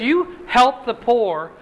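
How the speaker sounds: a hint of God promising, slowly; God speaking. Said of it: "He says".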